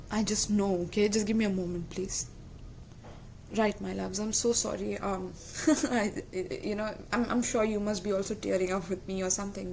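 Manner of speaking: quiet, choked-up pauses while fighting tears; emotional, holding back tears. Real, not acted. Tarot reader to Cancer viewers, softly teary and emotional. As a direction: let the tears nearly come between words. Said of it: "I'm just a little bit emotional right now".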